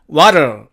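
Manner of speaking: "what'll" as "war", ending swallowed; contracted what'll. Shown as a demonstration. Teacher giving the alternative form, contracted. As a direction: say "what'll" like "warl", tightly reduced. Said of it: "이렇게 발음이 되고요".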